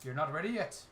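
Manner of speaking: lighter Irish brogue, settling down; Hollywood Irish. Acted. Irish character apologetically refusing the lads, mild Hollywood Irish. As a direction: let the Irish lilt ease off. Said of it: "This is what I call Hollywood Irish".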